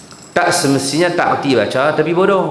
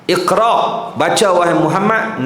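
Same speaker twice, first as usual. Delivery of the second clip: Jibril commanding; 3 semitones higher than usual. Acted. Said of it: "Nabi jawab".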